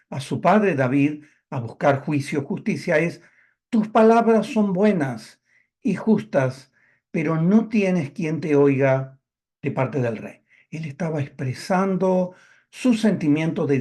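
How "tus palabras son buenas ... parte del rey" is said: butter up the listener, drawing the words out; a lightly voiced sly prince, slow and pitched up; smooth flatterer. Quoting Absalón's flattering line again.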